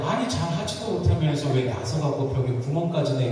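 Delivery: mildly acted nagging. Husband to wife over holes in the wall, nagging. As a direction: retell a husband's scolding, lightly. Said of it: "이러면서 막 잔소리를 쏟아부었습니다".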